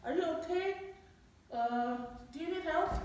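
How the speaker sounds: lightly acted neighbour checking in; neighbour's kid. Neighbour's kid calling to the woman shouting for help, questioning. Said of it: "tetangga saya keluar anaknya".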